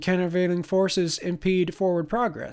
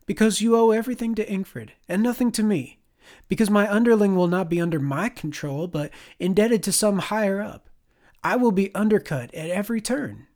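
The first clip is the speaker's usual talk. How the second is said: angry commander; 5 semitones higher, 3 dB louder than usual. Acted. C argues, angry.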